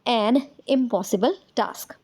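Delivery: very slow, word by word; slow dictated sentence; slow dictation. Shown as a demonstration. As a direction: dictate it for the class to copy. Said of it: "इसी तरह से".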